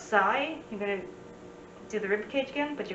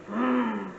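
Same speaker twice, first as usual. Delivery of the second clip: mock grumble. Shown as a demonstration. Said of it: "and you frown".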